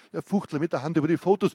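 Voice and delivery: gripping reading of an interrogation scene; story narration. A narrator's reading. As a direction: read it like a tense crime novel. Author reads thriller interrogation scene.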